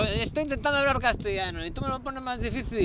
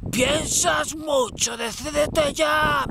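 slow, higher mocking voice; mimicking the others; 7 semitones higher, much slower than usual. The others telling him to decide, mocked high and slow. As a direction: drag it out like the people nagging him. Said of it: "me decían".

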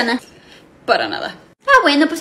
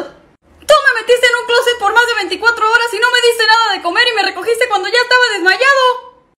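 character voice; 9 semitones higher, 3 dB louder than usual. Acted. Ricardo complains, voiced character.

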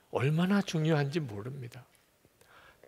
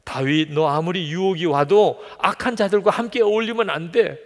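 God's urgent warning, higher and louder; God warning David; 5 semitones higher, 4 dB louder than usual. Acted. Preacher voicing God pleading with David, urgent and loud. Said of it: "하나님께서 말씀하세요".

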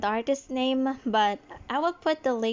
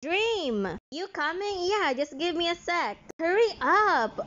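calling out to a friend; 4 semitones higher than usual. Acted.

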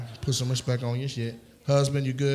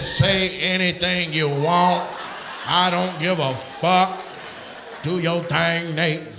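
slow, drawn-out mock come-on; mock voice of a flirt; 5 dB louder, much slower than usual. Comic voicing a woman's flirt telling Nate to go ahead. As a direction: stretch each word out, teasing and bold. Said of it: "it said".

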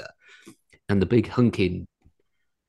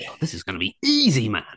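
mock cocky confidence; 2 semitones higher, faster than usual. Acting out his own naive confidence.

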